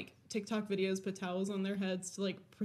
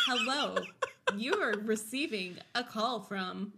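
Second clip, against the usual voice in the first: flat automated phone voice; robot voice. Retold or imitated. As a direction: read it like a robocall. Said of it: "it's the old robotic voice".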